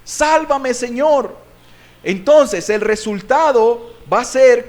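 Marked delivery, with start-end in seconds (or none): 0.0-1.4 high, urgent cry to Jesus; crying out for rescue. Acted. Peter calling to Jesus as he starts to sink, crying out. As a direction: call out for help, pitch raised. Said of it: "dio voces diciendo".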